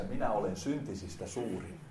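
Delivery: hiljaa ja matalalla, nöyrästi; hiljainen tunnustus. Pretend. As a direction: sano se hiljaa Jumalan edessä. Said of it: "sinä sanot Jumalasi edessä". (nöyrä, hiljainen tunnustus)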